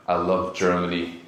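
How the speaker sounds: low, slow, ominous declaration of love; creepy Germany fanatic. Acted. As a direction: play the one dude too fond of Germany, low and slow. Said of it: "one dude who's like".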